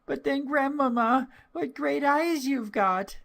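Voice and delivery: put-on very high, wondering child's voice; little girl's voice. A narrator's reading. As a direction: marvel like a small girl. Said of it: "said the little girl".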